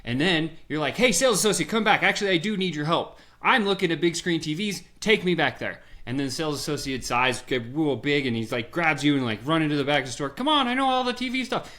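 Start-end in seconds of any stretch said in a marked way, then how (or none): 1.0-5.8 louder, higher call back to the clerk. Retold or imitated. Customer calling salesman back. 10.3-11.7 much higher, excited clerk rushing you along; eager salesman. Retold or imitated. Excited salesman leading customer.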